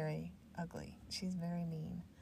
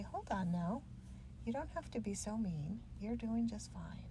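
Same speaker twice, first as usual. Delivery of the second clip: gently higher, kindly grandma reassurance; mildly voiced nice grandma; nice aunt voice; 3 semitones higher than usual. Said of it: "that's like my nice aunt voice or my nice grandma voice".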